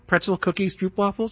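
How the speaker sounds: lightly imitated attendant offering snacks down the aisle; flight attendant singsong. Passenger imitating a flight attendant's mock singsong. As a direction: chant the snack list like a tired attendant. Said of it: "The things that they have to repeat".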